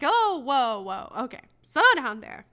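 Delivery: a loud, hammed-up whoa to rein in a smug husband; mock alarmed. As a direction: call out to rein him in, hammed up. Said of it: "I'm like".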